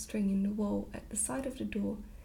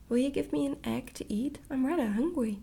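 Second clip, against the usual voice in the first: eager little princess; 3 semitones higher, 3 dB louder than usual. Acted. Child asking for an egg.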